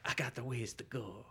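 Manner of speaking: put-on Queens accent. Imitating the killer's line in a Queens accent. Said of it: "That's a Queens accent".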